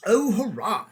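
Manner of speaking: high, loud cheer; excited cheer. A narrator's reading. Shasta cheering that they will go north. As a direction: burst out with joy.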